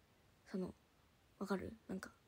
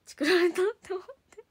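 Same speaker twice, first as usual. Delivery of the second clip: indignant outburst; 8 semitones higher, 9 dB louder than usual. Real, not acted. Realizing she was snitched on.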